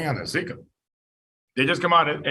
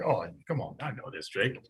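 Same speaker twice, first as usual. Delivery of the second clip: imitated student; 8 semitones lower, 9 dB quieter than usual. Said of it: "now it's like".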